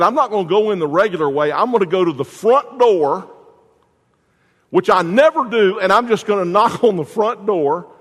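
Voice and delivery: a husband bursting with his big romantic idea; excited husband. Retold or imitated. Husband boasting to himself about his surprise, excited.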